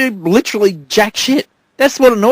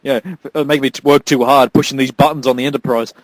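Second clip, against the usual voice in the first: low, soft whining complaint; mock whiny actor; 7 semitones lower, 4 dB quieter than usual. Mocking the actor complaining about Star Trek, low and whiny. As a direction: whine like a pampered star.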